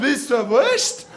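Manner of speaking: slow exaggerated question to a small child; mother leaning down to her son, slow and overclear; mother bending down. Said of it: "die Mutter runtergesprungen und hat gesagt".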